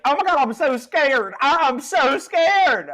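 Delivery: very high, loud panicked wail; hammed-up terror. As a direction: wail in exaggerated fright as a cowardly character. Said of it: "And Jed's like".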